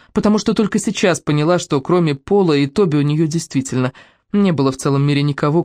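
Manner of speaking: plain reading voice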